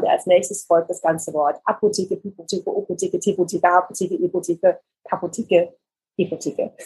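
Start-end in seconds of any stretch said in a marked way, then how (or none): 1.6-6.7 "Apotheke" repeated evenly, the first sound changed each time; articulation drill. Shown as a demonstration. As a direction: run through "Apotheke, Pipotheke, Opotheke" as a steady practice drill. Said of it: "spreche ich quasi immer mit dem Buchstaben". („Apotheke, Pipotheke, Opotheke“ als gleichmäßige Sprechübung)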